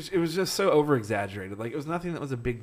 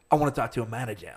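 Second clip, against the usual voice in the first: lightly imitated British customer; mock British accent; faster than usual. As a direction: demand it with a British lilt. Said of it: "with that accent".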